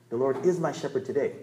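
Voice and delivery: "is" given the main weight; stress on "is". Shown as a demonstration. Preacher insisting on the present tense, stress on "is". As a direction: land firmly on "is". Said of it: "you emphasize different words".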